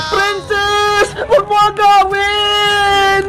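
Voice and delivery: put-on drawn-out childish protest; acted squabbling protest. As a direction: whine it out in a mock quarrel. Acted tug-of-war over flowers.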